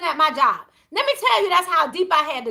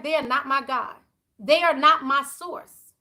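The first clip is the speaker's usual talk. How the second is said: calm resolve; 2 semitones lower than usual. Retold or imitated. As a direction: say it like peace just came over you. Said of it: "it was just a calm that came over me".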